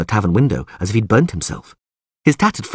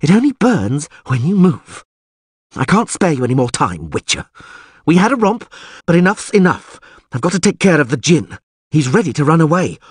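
raised voice, lightly voiced impatient sorceress; brusque sorceress; 7 semitones higher, 3 dB louder than usual. A narrator's reading. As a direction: dismiss him, eager to get on. Yennefer addressing the trapped Witcher.

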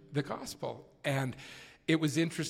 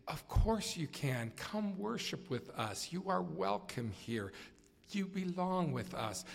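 softer and higher, like opening a door to a stranger; warm welcome; 5 semitones higher, 4 dB quieter than usual. Retold or imitated. President Uchtdorf warmly welcoming a gay man in an airport. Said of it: "greeting him so warmly".

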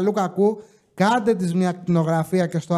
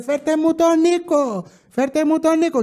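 mock wailing shout; 8 semitones higher than usual. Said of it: "Ούρλιαζε και έκλαιγε και φώναζε".

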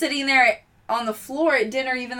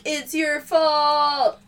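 slow ghostly accusation; 4 semitones higher, much slower than usual. Retold or imitated. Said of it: "she's like".

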